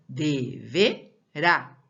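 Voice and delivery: Deverá slowly as DE, VE, RÁ; syllable breakdown. Shown as a demonstration. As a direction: sound out Deverá with clear gaps, RÁ strong. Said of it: "Rá é o mais forte".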